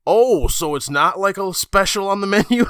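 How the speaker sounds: high, loud incredulous question; baffled family. Retold or imitated. Family at dinner asks if it's a menu special. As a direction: play the family's disbelief.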